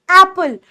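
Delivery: एप्पल with full weight on a long, open ए; एप्पल, first vowel open and held. Shown as a demonstration. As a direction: put the whole focus on the first vowel of एप्पल. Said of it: "पूरा ए पे focus".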